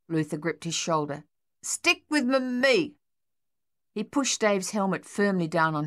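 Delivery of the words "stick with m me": slow, higher halting stammer; stuttering soldier. A narrator's reading. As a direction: stumble over the words, slowly. Luther stutters.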